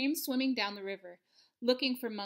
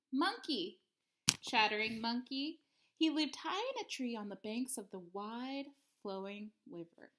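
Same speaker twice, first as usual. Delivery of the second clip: picture-book narration. A narrator's reading. Teacher reads a monkey tale to third graders, expressive storytelling. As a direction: linger on key words, letting them swing in pitch.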